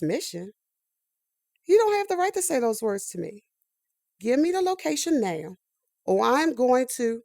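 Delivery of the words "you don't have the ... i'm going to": louder, rising threat; angry. Acted. Recruit demanding the location from the agency, angry. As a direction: demand it, voice climbing.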